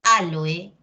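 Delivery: Á-lo-e, stressed on the first syllable. Shown as a demonstration. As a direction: say aloe as ÁL-oe. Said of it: "yo te digo".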